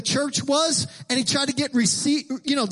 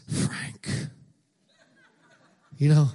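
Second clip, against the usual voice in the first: dramatic preacher; 10 semitones lower, much slower than usual. Retold or imitated. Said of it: "Rick is very dramatic".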